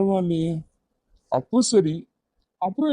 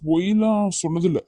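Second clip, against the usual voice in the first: faltering denial. Acted. Boyfriend denying he ever lied, faltering. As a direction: stumble slightly over the denial. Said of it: "ரொம்ப தடுமாறி சொல்ற மாதிரி இருக்கு".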